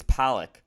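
Pollock said with an O in the first syllable; corrected pronunciation. Shown as a demonstration. Co-host corrects his surname, saying Pollock with an O. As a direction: say Pollock like the painter Jackson Pollock. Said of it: "with, with an O".

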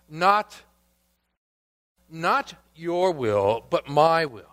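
the first Adam choosing himself, set against the second; defiant first Adam. Acted. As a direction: stress NOT and MY, insisting on his own way. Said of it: "the first Adam would say".

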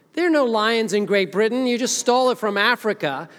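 high, loud indignant objection, played for laughs; mock protest. African-born preacher objects to Britain's lion, mock protest. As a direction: protest loudly in mock outrage. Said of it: "And I'm like".

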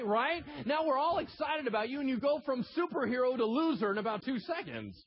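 high, loud, worked-up preaching; preaching at full force. Acted. Pastor mocking Peter's rebuke, loud and high.

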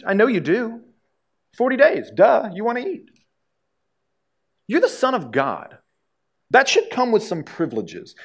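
preacher voicing the devil with a lightly mocking lilt; taunting devil. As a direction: needle him like a smug tempter. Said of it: "the devil's coming along and he's saying".

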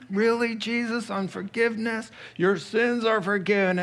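high, exasperated whine; a mildly exasperated crowd member; incredulous complaint. Retold or imitated. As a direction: moan it like a letdown crowd.

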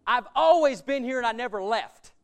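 loud sharp opening, then a resentful complaint; a touch of a son confronting his father; defiant retort. Retold or imitated. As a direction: throw it in your father's face. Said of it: "gets in his face and said".

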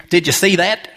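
put-on Australian-accented question from a tour guide. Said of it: "It's gotta be an Australian accent".

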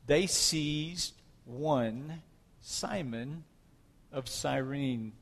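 measured, emphatic reading aloud from the Bible; scripture reading. A narrator's reading. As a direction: read the passage out with deliberate phrasing and pauses. Reads scripture aloud to congregation.

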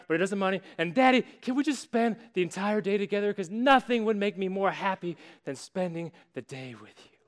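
put-on bubbly, eager little girl, running words together; a thrilled kid bouncing on the bed; gushing daughter, mildly played; excited child. Daughter bursts in on Father's Day.

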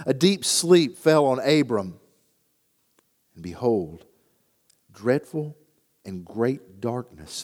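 measured, solemn reading of the Bible aloud; scripture reading. Acted. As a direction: read the passage with gravity. Scripture reading before sermon.

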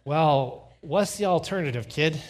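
mock-exasperated comeback; exasperated dad. Father answering his sweaty son's objection, exasperated.

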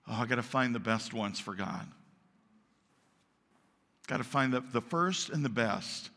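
low, quiet, thinking aloud; Abel musing to himself. Acted. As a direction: mull it over earnestly, voice dropped low. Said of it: "and he says".

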